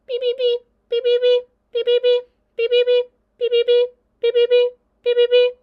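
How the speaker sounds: put-on very high, loud chirping baby birds; cheeping goslings. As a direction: peep like a tiny chorus of goslings.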